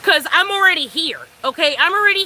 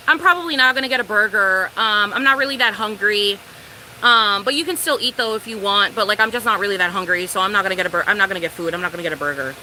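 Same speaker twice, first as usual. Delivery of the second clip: low, mumbly excuse sinking lower as it goes; mock the date's low, evasive backpedalling; imitating reluctant date; 6 semitones lower than usual. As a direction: trail down through a sheepish excuse. Imitates date backing out of food.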